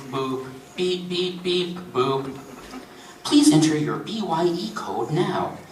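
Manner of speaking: lightly voiced recorded questionnaire with mouthed keypad beeps; recorded menu delivery; automated phone menu. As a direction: read it like an automated benefits hotline.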